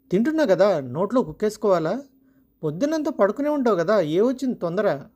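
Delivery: mock her hurry with scorn; sarcastic husband. Husband sneering at his wife over dinner, sarcastic. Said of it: "అన్నాడు వ్యంగ్యంగా".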